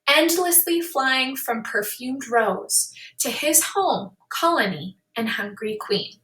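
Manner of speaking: lightly paced recitation of a short poem; poem reading. Acted. Teacher reads the growing-syllable poem, calm recitation. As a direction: read each line a little longer, calmly.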